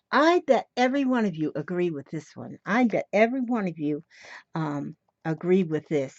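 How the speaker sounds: speaking without teeth; toothless. Real, not acted. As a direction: toothless mumble. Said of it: "I ain't got no teeth in my mouth".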